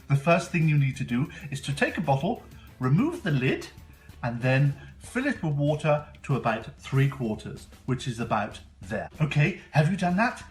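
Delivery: put-on bright, eager kids show host; host a kids science show; overbright kids party host. Kids show host persona Mister Peculiar.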